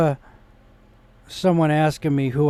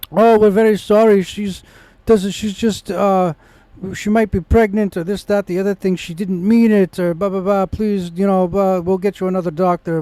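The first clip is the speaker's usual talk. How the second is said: higher-pitched imitation of a placating nurse; hurriedly smooth it over, lightly mocking the excuses; apologetic nurse; 4 semitones higher, 3 dB louder than usual. Voices the apologetic nurse placating him.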